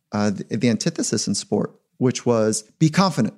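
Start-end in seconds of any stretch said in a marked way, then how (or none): 2.8-3.3 pushy coach. Retold or imitated. Imitating an unskilled coach urging Mike, mock pep talk, higher. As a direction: ham up a clueless coach cheering Mike on. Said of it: "I got taught something".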